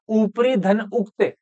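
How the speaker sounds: ऊपरी धन उक्त, slow and spelled out part by part; ऊपरी धन उक्त, slow step-by-step teacher's breakdown. Shown as a demonstration. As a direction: split the sandhi slowly for the class. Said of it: "संधि करके देख लीजिए".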